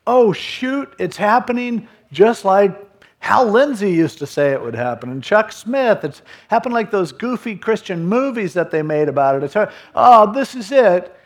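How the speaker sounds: high, loud, panicky rush of realisation; hammed-up dread, pitched high and loud; mock panic. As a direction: play the people realising the end has come. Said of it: "So they're like".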